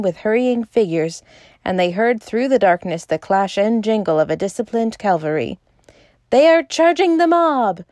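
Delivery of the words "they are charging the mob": high, loud, thrilled cry; ecstatic alarm. A narrator's reading. Bull watching the cavalry, an ecstasy of alarm. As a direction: shout it in excited alarm. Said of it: "cried Bull in ecstasy of alarm".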